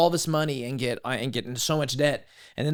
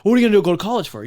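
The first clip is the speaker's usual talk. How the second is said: fast, loud, higher-pitched quizzing; puzzled questioning; 7 semitones higher, 8 dB louder, faster than usual. Retold or imitated. Shipmates figuring out his college plan, acted puzzlement. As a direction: imitate baffled colleagues. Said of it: "they're trying to figure it out".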